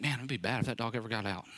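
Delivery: hushed, low voice for a thought to himself; inner thought. Retold or imitated. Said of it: "And I would always think".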